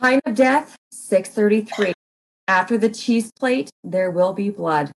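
ominous title read. Acted. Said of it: "excited for this".

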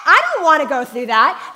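whiny dread of the ride; half-joking plea not to ride; mock dread. Dreading the roller coaster.

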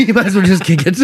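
giggling through the quote; half laughing, shrugging it off; laughing mock resignation. Retold teammate, laughing.

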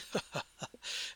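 short, soft husky chuckle; husky giggle. Acted. Elf woman amused by newcomer, husky giggle. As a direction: giggle low in the throat, huskily. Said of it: "kind of a husky giggle".

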